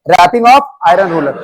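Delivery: slow, each word given weight; slow dictation. Shown as a demonstration. Teacher naming the third school sound, slowly. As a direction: pronounce it slowly for the class. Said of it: "तीसरा".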